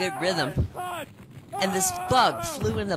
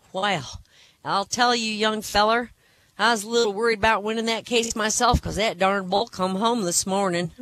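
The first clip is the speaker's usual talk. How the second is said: put-on higher-pitched voice of an old rancher; 5 semitones higher, 3 dB louder than usual. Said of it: "the old rancher said".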